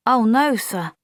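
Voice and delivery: eager protest to her lieutenant. Acted. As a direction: object at once to the officer. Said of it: "Polly protested".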